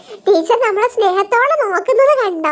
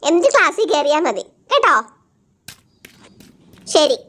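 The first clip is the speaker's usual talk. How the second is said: teacher telling off pupils who failed; stern teacher. Acted. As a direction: lecture the class like a strict teacher. Teacher gives punishment.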